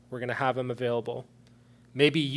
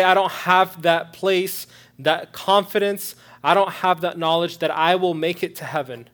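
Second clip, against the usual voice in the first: loud, higher voicing of a doubter; emphatic confession; 5 semitones higher, 11 dB louder than usual. Preacher voicing a listener without assurance, loud and emphatic. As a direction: speak their doubt out forcefully, word by word.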